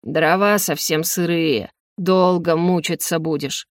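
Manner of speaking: put-on slow, low old executioner voice; slow ominous raspy drawl. Executioner continues speaking.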